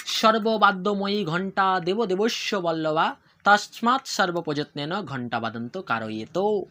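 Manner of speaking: slow, measured Sanskrit chant in one flow; sing-song ritual recitation at a slow pace; mantra recitation. Shown as a demonstration. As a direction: recite the bell mantra slowly and reverently. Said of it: "আমি আবার repeat করছি".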